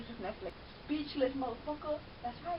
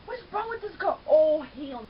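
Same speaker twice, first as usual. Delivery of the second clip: loud exclamation; 7 dB louder than usual. Real, not acted. Loud reaction.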